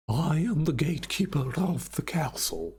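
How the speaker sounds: imitating an Eastern European gatekeeper; Eastern European accent. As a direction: say it like a Transylvanian count. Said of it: "It's more like a".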